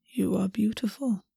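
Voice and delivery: a soft, unvoiced whisper; intimate whisper. A narrator's reading. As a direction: breathe the words close to his ear.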